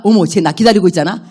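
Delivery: playful cold voice. Pretend. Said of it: "감기가 저기 있다가".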